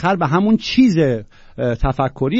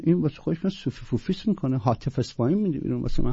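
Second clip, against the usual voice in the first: ordinary talk, nothing marked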